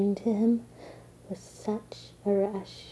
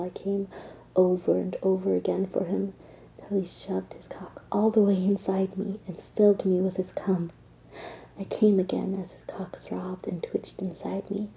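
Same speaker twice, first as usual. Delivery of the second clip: erotic whisper. Acted. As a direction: whisper it like a secret.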